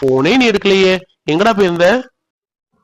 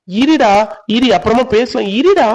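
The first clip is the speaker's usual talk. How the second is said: urgent hushing call; 6 semitones higher, slower than usual. Acted. Hushing friend to take call.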